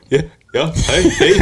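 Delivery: mimicking a caller. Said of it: "and then, and then you go".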